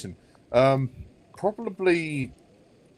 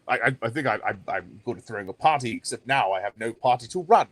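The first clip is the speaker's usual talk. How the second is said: Boris Johnson; 2 semitones lower than usual. Acted. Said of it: "can you do Boris Johnson".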